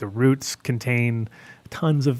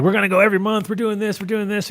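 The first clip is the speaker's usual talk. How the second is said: hyped up; 9 semitones higher than usual. Retold or imitated. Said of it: "They'll come in, like, hot".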